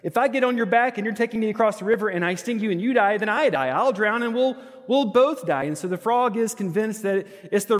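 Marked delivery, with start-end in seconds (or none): 0.0-5.6 higher and louder, building to a near shout; argumentative scorpion. Retold or imitated. Pastor voicing the scorpion arguing with the frog, rising. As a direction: scorpion talking the frog round, mounting exasperation. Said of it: "And the scorpion says".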